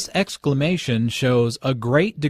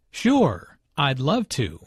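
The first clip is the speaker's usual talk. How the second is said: bright eager yes with a lift on Sure; friendly and keen; enthusiastic; slower than usual. Acted. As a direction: accept the date eagerly. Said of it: "Alice is very enthusiastic and friendly".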